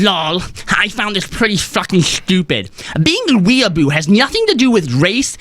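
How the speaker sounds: lightly put-on anime fan voice; weeaboo voice. Shown as a demonstration. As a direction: read it like an anime superfan. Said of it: "You're not reading this in a weeaboo enough voice".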